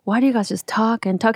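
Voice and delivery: hushed, whispered mock complaint; whispered parody of men griping. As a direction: mimic a fed-up husband under your breath. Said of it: "men are always like".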